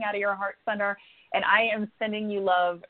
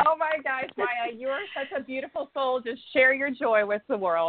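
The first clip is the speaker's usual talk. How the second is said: higher-pitched gush of affection; gushing warmly; 4 semitones higher than usual. Real, not acted. Host welcoming an emotional new caller, gushing warmly. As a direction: coo with delight at the caller.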